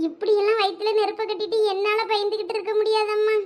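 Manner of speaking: a lightly voiced fretting mother; worried mother. Mother fretting to her elder daughter about the late girl, lightly voiced. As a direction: pour out your worry to the elder daughter.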